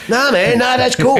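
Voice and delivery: high, loud, laughing nah man; laughing reassurance. Retold or imitated. Staff promising the client secrecy, laughing. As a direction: wave it off while laughing. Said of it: "And we go".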